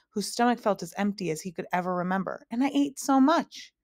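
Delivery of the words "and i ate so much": put-on higher boy's voice, puzzled and whiny; a hungry child who can't understand it; Milo. Milo protesting to the magician, puzzled higher boyish whine.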